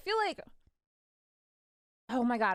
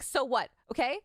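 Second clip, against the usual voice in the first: indignant mom; 6 semitones higher than usual. Retold or imitated. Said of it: "she stood up and she was just like".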